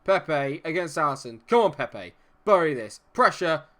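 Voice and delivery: will the penalty in; tense urging shout. Real, not acted.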